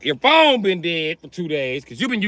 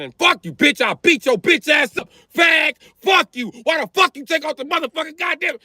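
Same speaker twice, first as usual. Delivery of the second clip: heckler rant; 5 semitones higher than usual. Retold or imitated. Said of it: "He said".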